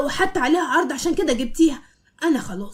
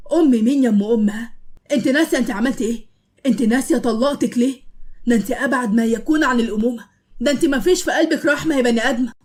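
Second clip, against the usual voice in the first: loud, furious rebuke; angry scolding; 4 dB louder than usual. Acted. Youssef yelling at his ex-wife Malak, furious. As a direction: lash out at her for abandoning her son.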